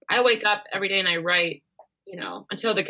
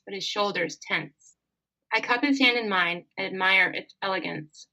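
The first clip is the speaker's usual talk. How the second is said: reading her Regency story aloud, calm; a calm, even read of the romance. Acted. Author reads her fan fiction to the host, calmly.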